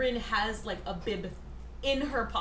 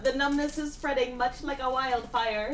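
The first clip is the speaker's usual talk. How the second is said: dramatic quoting; 2 semitones higher, slower than usual. Retold or imitated. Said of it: "Comment that he made".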